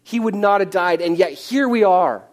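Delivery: rising outrage at an absent friend; angry grieving sister. Acted. Preacher voices Martha's angry complaint.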